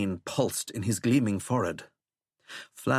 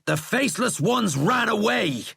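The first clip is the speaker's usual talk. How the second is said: high, louder contradiction; loud rebuttal; 12 semitones higher, 5 dB louder than usual. A narrator's reading. General contradicting the president, loud. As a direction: throw it back at him loudly. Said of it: "Sheckley said loudly".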